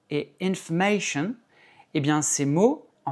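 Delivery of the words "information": information with the stress on MA; English "information", long MAY before -shun; English word stress. Shown as a demonstration. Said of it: "le A est accentué".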